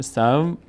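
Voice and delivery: سو said as one syllable, vowel gliding into waw; joined reading. Shown as a demonstration. Teacher shows learners waw read with the preceding vowel, joined reading. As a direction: demonstrate سو with the waw closing the syllable.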